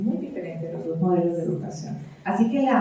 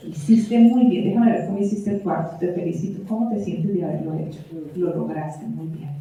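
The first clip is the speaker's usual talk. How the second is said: calm affirmation; 3 semitones lower than usual. Retold or imitated. Parent calmly affirming a child's good work. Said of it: "Es muy diferente a decirle".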